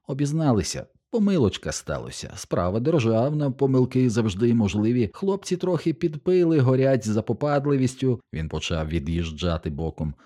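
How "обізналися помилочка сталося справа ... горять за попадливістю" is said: higher, eager, grovelling patter; a cowed guard talking his way out; fawning excuses. Acted. Stormtrooper backing away before the noble, fawning and high.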